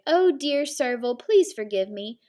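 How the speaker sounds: loud sudden blurt. Acted. Dog apologizing to Serval, blurting it out loud. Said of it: "Dog blurted".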